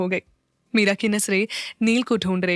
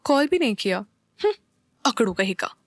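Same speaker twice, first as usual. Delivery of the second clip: petulant muttered complaint; sulky pout. A narrator's reading. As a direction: sulk over the missed call. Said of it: "मुंह बनाकर बोली".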